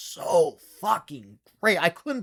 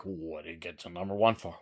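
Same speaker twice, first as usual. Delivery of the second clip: imitating the viewer's question in a whisper; mock the curious fan in a whisper; 11 semitones lower, 12 dB quieter than usual. Reviewer voicing a curious viewer: whispered question. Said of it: "You're like".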